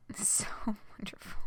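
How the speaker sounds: whispered through a laugh. Real, not acted. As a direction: breathe it out, overcome with delight. Reader gushes over scene.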